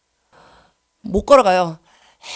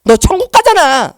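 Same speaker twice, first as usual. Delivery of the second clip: louder, slow, taunting Satan; mocking tempter voice; 4 semitones higher, 6 dB louder than usual. Satan taunting her in the spiritual battle, slow loud mock. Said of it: "사단이요, 저한테 말해요".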